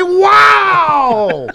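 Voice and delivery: high, loud, drawn-out fan shout; exaggerated awe, shouted long; mock amazement. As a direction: gush like a starstruck crowd. Mimicking fans gushing over Bryce Harper.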